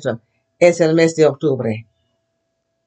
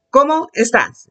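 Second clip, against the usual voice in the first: "estás" lifted on its accented last syllable; 5 semitones higher than usual. Shown as a demonstration. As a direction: raise the voice on the "á" of "estás". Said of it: "accents mean your voice goes up".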